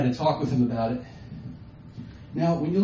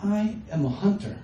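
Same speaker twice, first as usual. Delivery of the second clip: mock grandiose; slower than usual. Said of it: "I said".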